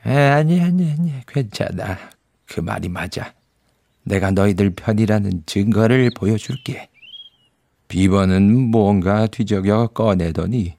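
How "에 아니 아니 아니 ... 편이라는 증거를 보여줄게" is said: beaver. Acted. Beaver reassures the children.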